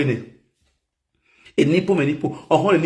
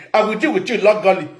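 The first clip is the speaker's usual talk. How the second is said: threat "I will deal with you legally" yelled out; shouted threat; faster than usual. Pretend. Threatening a rival in a shouted warning. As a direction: yell the threat at them.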